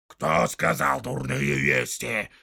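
slow, loud outraged orc question; indignant orc. Acted. Soldier outraged at the tracker's taunt, slow and indignant. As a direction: throw the words back at him, offended. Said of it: "возмутился воин".

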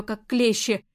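usual speaking voice

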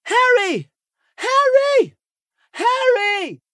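high, loud calling from afar. Acted. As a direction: shout his name across the house. Hermione calling through house. (chamando de longe, voz alta)

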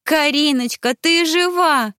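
high and loud, near tears with joy; rapturous exclaim. Acted. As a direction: burst out in delight, stressing ты. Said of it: "восторженно воскликнула кузина".

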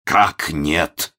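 mildly deflated, lost question; crestfallen. A narrator's reading. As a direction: let the voice sink in dismay. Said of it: "упавшим голосом перебил Момус". (упавшим голосом)

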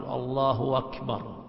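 imitating a slow "الله أكبر" with a stretched "الله"; commoners' pronunciation. Teacher imitates how commoners say the takbir, slow and drawn out. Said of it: "بعض العوام يقول".

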